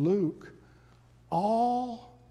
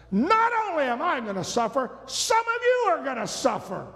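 voice of authority; 9 semitones higher, faster than usual. Acted. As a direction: declare it with full authority. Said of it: "with a voice of authority".

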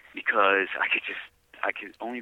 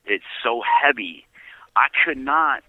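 overwhelmed whisper; 4 semitones higher, 5 dB louder, slower than usual. Real, not acted. Overwhelmed recalling prison weight.

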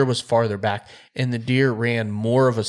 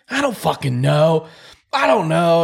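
a touch of mock despair, slow; mildly hammed-up helpless whine; imitating distraught friend; 7 semitones higher, 5 dB louder than usual. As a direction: friend at the bottom of the roller coaster, mock despair.

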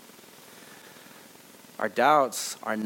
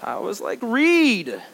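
much higher, louder laughing snap; mock harsh teacher; 10 semitones higher, 3 dB louder, slower than usual. Teacher mock-scolding crying girl, loud and laughing. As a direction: bark it as a joke.

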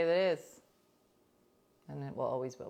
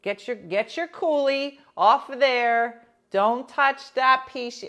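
a hint of a loud Italian mother; mildly voiced Italian mother calling the kids; Italian mom; 5 semitones higher, 8 dB louder than usual. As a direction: call the kids in like a nonna, a touch louder. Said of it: "that's what Italian".

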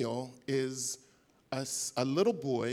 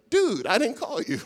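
1 modern dude; 11 semitones higher, 9 dB louder than usual. Retold or imitated. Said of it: "he'd be like".

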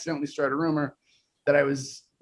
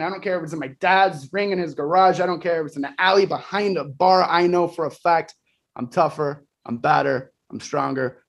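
wrestling promo. Pretend. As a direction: call out Moxley like a heel. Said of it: "If you could cut a promo on him right now".

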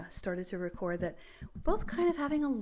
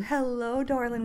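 femme fatale; 4 dB louder, slower than usual. Pretend. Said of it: "You hear that? Do you love it?".

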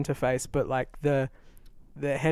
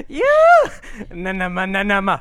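imitated moaning; 3 semitones higher, 7 dB louder than usual. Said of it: "What is this accent?".

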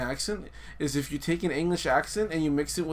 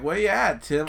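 hesitant attempt at an Australian accent. Podcast host reads a dad's line on request, poor Australian accent. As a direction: try a mild, raised Australian accent. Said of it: "read the text with an Australian accent".

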